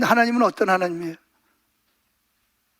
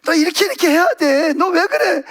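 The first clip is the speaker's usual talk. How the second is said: nagging scold; 4 semitones higher than usual. Retold or imitated. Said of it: "그분은 거기서 또 잔소리해".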